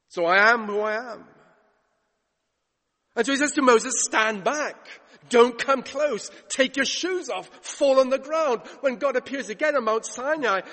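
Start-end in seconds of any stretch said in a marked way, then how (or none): 0.1-1.2 booming voice of God. Acted. God's final declaration. 4.0-8.7 loud, high, stern commands; God warning Moses off holy ground, loud and stern; commanding God. Acted.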